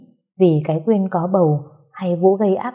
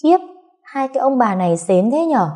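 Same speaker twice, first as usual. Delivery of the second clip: mocking; 6 semitones higher than usual. A narrator's reading. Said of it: "nhìn chị Trang mỉa mai".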